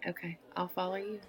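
softly whispered; whispered consent. Acted. Agreeing to follow the stranger out, whispering. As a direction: breathe it close to his ear.

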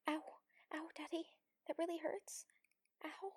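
loud, breathy yelp of pain; pained protest. Acted. Protesting to a partner, a pained yelp. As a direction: cry out as if it hurts. Acted protest at being hurt.

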